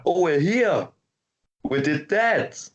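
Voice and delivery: high, slow exaggerated uptalk impression; mock uptalk actress. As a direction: parody the actress's sing-song line endings. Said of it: "she always raises her voice".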